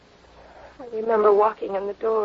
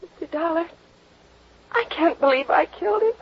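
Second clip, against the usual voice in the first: distressed disbelief; 5 semitones higher than usual. Acted. Woman fearing she killed someone.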